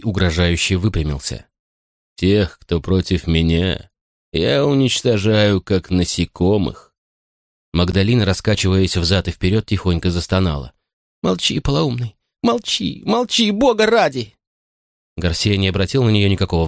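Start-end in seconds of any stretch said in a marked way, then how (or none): 2.2-6.9 slow, sinister threat; menacing threat. Acted. 11.2-14.4 high, frantic pleading cry; desperate cry. Acted. Magdalena's desperate higher outcry.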